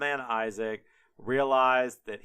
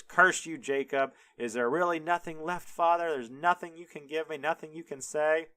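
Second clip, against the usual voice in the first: higher, mildly hammed-up desperation; curse, then plead a little higher; distraught Esau; 4 semitones higher than usual. Distraught son to father after losing blessing, mock-desperate. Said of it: "Esau is distraught".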